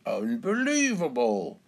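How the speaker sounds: put-on, swooping disbelief; exaggerated amazement, rising then falling; astonished cry. A narrator's reading. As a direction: cry out as if you cannot believe your eyes. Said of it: "cries Mister Labrador".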